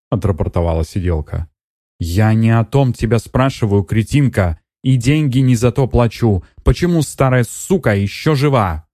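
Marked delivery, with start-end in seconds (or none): 2.0-8.9 higher, angry rebuke of the nurse; angry scolding. Acted. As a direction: lash out at the hired nurse. Netta berates the nurse. (Нетта гневно отчитывает сиделку, выше голосом)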